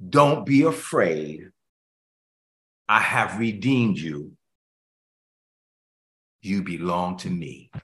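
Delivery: slow, earnest voice of a loving father; God speaking tenderly. Acted. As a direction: speak as God reassuring his child. Voicing God's tender words.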